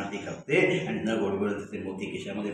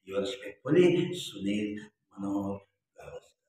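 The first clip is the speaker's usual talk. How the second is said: reading a letter out slowly and formally; a slow, solemn reading of a fan letter; much slower than usual. Retold or imitated. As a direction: read it like a stiff, formal English letter. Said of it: "हे वाचल्यानंतर मला वाटलं".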